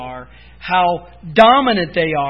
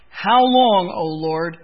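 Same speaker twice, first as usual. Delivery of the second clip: cry out. Retold or imitated. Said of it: "he cries out".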